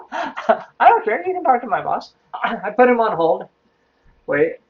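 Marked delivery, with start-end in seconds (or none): 0.1-2.1 mock indifference. Retold airy reply to angry caller.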